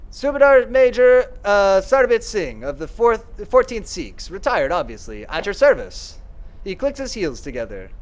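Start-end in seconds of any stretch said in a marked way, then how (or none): 0.1-6.2 loud, slow, proud military announcement; retired Major announcing his rank to the lady, loud and slow; the Major introduces himself. Acted. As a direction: boom it out like an old soldier presenting himself. Player voices the Major introducing himself.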